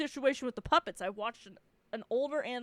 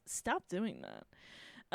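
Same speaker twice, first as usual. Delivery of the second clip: slow, firm scolding; 4 semitones lower, 6 dB quieter, much slower than usual. Real, not acted. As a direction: scold it slowly.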